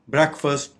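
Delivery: "ब्रेकफास्ट" said BREK-fust; short e, short final vowel in "ब्रेकफास्ट": BREK-fust; correct pronunciation. Shown as a demonstration. Teacher giving the correct form, "ब्रेकफास्ट" as BREK-fust. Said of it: "इसकी correct pronunciation है".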